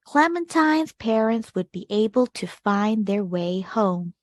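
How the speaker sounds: put-on gentle read-aloud for children, measured pace; storybook narration. A narrator's reading. Teacher reading a picture book to kids, expressive narration. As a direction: tell the tale to a class of young listeners.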